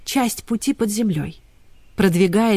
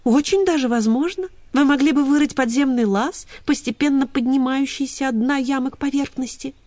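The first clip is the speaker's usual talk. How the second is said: lively higher little dachshund; chirpy small-dog voice; cheerful little dog; 6 semitones higher than usual. Acted. Ksyusha explains the escape plan.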